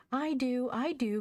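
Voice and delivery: put-on high, loud little-boy outburst; eager cry. A narrator's reading. Joel cries out to his mother at the table, eager cry. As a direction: pipe up loudly and insistently. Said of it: "cried Joel".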